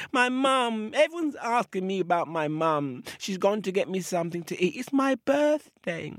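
put-on high, childlike little crocodile; little crocodile, bright and high; baby crocodile voice. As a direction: chirp it up like a small child.

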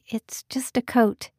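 slow, whispered reassurance; a slow whispered it's just a coat. Acted. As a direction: hush it, slow and gentle. Susanna soft reassurance.

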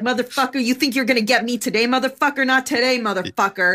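a hint of a tough Long Island grandma; lightly voiced Long Island attitude; mild Long Island tough talk; Long Island accent. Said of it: "she talks like this".

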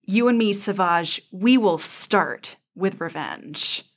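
a lightly voiced dark villain; Maul vowing revenge. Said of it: "He says".

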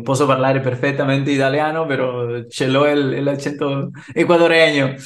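put-on Italian with an Ecuadorian accent; Latin-accented Italian. Telling the caller he speaks Italian, in a Latin accent. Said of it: "obviamente, con acento latino".

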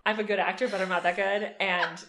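laughing, smiling through every word; beaming, can't stop grinning; giddy. Real, not acted. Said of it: "You sound giddy".

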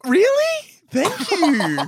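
very high, camp delight; put-on gay voice. Man flattered by a compliment at a bar, put-on gay voice. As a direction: soar up in hammed-up flattered surprise. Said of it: "Can I, can I do a gay voice or no?".

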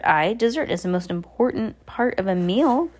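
eager blustering sea captain; light, hearty captain's cry; a touch of the old salt; captain cries out. Acted. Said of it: "the captain cried".

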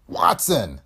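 a bellowed name across the room; captain roaring for his steward; roared. Acted. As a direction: call for Watson with a captain's roar. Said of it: "he roared".

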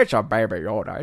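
lightly put-on cutesy voice with distorted vowels; silly baby talk. Streamer teasing a viewer over a name, silly baby talk. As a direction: coo it in mock baby talk.

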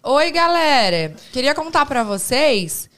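slow, drawn-out mock influencer pitch, soaring on the last word; hammed-up influencer reading out a promo; imitação de blogueira. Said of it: "Mano, ela fica assim, ó". (imitação arrastada e exagerada de blogueira anunciando desconto)

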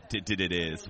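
tripping over "did", repeating it before "it is"; Porky Pig stutter. Real, not acted. Losing the thread announcing today's topic, real stammer on "did". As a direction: stumble and restart on "did". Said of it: "I'm Porky Pigging it".

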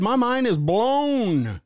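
high, drawn-out amazement on the last word; amazed rave. Acted. Host reading a fan's rave comment, amazed. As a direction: read it out wide-eyed, stretching it high.

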